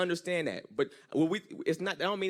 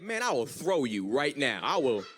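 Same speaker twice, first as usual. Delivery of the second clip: put-on girlfriend's threat; 3 semitones higher than usual. Girlfriend threatens him in acted quote.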